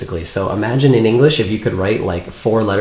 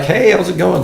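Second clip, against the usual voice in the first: higher-pitched, friendly imitated cop's hello; friendly greeting; 9 semitones higher, 3 dB louder than usual. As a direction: act out a friendly cop greeting someone. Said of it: "it's just friendly".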